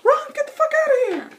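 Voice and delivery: high loud desperate yell; yelling warning. Retold or imitated. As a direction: scream at her to run. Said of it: "yelling to Maria Conchita Alonso".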